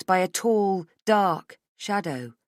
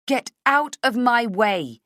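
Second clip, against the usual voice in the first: slow, louder, forced bravado; false bravado; 6 semitones higher, 6 dB louder, slower than usual. A narrator's reading. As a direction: fake courage you lack. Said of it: "with false bravado".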